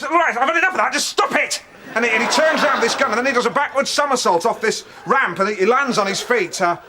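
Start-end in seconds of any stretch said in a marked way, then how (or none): 0.0-1.6 mock fed-up outburst. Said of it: "and he goes".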